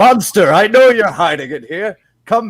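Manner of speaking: loud, high, hollered yelling. A player's character marches up the path, sword out, yelling a challenge.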